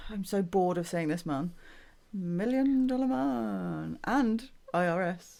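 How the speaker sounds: weary sigh, words dragged out slowly; groaning and sighing. Real, not acted. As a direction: groan it out, utterly bored. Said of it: "groaning, sighing and crying at the same time".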